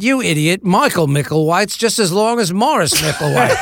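hammed-up Cockney exasperation; exasperated agent. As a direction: tick off a client in imitated London accent. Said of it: "And Dennis said".

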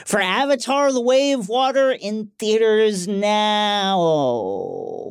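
slow movie trailer announcer. Acted. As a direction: draw it out like a trailer voiceover. Mock movie trailer tagline.

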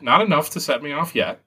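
ordinary talk, nothing marked

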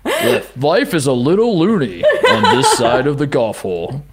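lightly voiced movie trailer announcer; nineties announcer voice. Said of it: "unbelievable nineties announcer voice".

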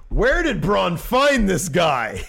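high, loud, drawn-out mock disbelief; slow incredulous cry, hammed-up; baffled commentator. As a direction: stretch it out like an astonished announcer.

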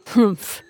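gruff badger harrumph; a grumbly humph; grizzled humph. A narrator's reading. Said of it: "grizzled the badger".

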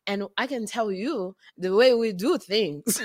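measured, careful Botswanan accent. Shown as a demonstration. Actress improvises for the director, Botswanan accent. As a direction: spell out each phrase in a Botswanan accent. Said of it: "That was good".

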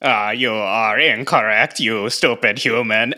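flat mechanical robot voice. Pretend. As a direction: talk like a cold robot. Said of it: "Armand won't do that robot voice".

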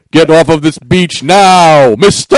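slow, building mock-cop command; Tackleberry. Ordering a shark off the beach, mock-cop shout. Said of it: "I'm doing Tackleberry".

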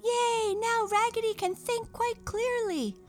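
very high squealing doll chorus; excited cheer. Acted. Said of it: "cried all the dolls".

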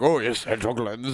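deep mock movie-star voice; Johnny Depp impression. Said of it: "Your Johnny Depp impressions are phenomenal".

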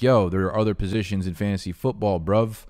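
lightly put-on English accent, imitating viewers; attempted English accent. Fans pleading for other football positions, attempted English accent. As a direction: try an English accent, not quite convincingly. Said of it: "I'm trying to do an English accent".

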